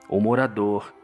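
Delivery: ordinary talk, nothing marked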